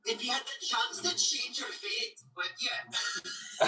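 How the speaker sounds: Scottish heroine's line, acted out; Scottish film quote. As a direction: put on a Scottish accent. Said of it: "What is that, Highlander?".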